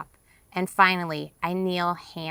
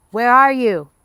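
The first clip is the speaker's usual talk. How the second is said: loud, higher shout into the dark; calling out; 6 semitones higher, 10 dB louder than usual. Acted. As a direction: yell to be heard over the river. Calling across the river.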